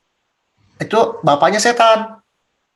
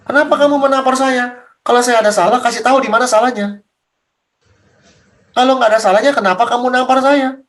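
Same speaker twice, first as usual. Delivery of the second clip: lightly voiced Jesus, more insistent; Jesus questioning; 2 semitones higher than usual. Jesus challenging the one who slapped him, mildly insistent. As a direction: press the questions in a somewhat raised voice. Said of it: "Yesus ngomong begitu".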